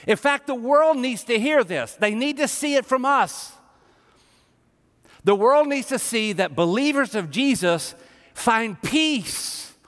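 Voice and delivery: emphatic, high-pitched sermon exhortation; impassioned preaching. Real, not acted. Preacher urging believers to speak God's promises, emphatic and impassioned. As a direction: press the point on the congregation with conviction.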